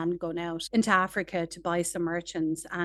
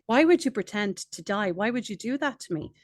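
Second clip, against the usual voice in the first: mock indignant merchant; 3 semitones higher, 4 dB louder than usual. Merchant confronts parrot faking death.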